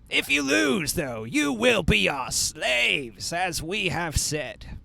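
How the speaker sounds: high, slow ceremonial announcer; announcer bard. Acted. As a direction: herald it to the whole clan. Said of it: "he's going to say".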